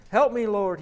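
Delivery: high, loud cry for help; begging. A narrator's reading. The man begging his Lord for help, loud and high. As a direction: beg the Lord with everything. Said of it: "he begs".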